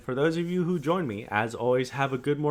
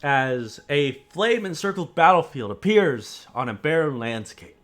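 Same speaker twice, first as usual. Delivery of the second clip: grave, steady scene-setting; story narration. Acted. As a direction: paint the battlefield for the players. GM describes the vision scene.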